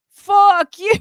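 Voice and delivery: loud, high mock shout; high shouted metal yell; shouted fuck you. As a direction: bark it like the breakdown. Band's shouted breakdown line.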